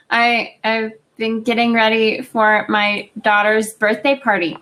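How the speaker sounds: flat, slow robot-like monotone. Real, not acted. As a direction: sounds like a robot on a bad line. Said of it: "You are talking like a robot".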